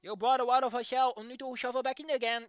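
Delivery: scoffing retort to a repetitive fic; mocking paraphrase. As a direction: throw the line back at the writer, exasperated. Mocking the fic's repeated line.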